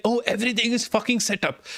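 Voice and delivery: sarcastic high mock voice, a bit fast; mocking smug people. Mocking other streamers whose OBS is set up, sarcastic. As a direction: sneer at people whose setup just works. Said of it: "where they just start with".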